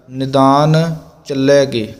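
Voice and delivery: ਚੱਲੈਗੇ with a break between ਲੈ and ਗੇ; dash demo. Shown as a demonstration. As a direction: separate ਗੇ lightly in ਚੱਲੈਗੇ. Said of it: "dash ਲਾ ਕੇ ਬੋਲਣਾ". (ਚੱਲੈ-ਗੇ dash ਨਾਲ)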